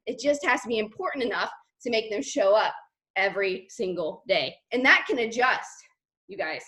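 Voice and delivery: breathless from talking; winded after a long rant; out of breath. Real, not acted. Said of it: "I'm out of breath".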